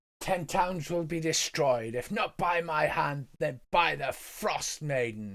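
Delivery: called out at a high pitch. A game narrator voices a druid shouting at the players, shouting. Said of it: "She shouts at you".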